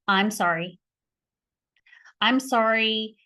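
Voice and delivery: slow, gentle sincere apology. Shown as a demonstration. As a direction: say sorry slowly and mean it. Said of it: "one of the first things I say".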